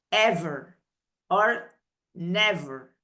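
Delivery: ever met een zachte Engelse v; lip-tand v in ever en never; English v sound. Shown as a demonstration. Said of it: "¿y vieron cómo pronuncio yo?".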